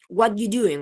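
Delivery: "What you doing?" run together without "are"; coalescent assimilation. Shown as a demonstration. Teacher giving an example sentence, "what you doing" run together. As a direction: blend "what you" into one quick unit. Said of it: "pasa en oraciones como".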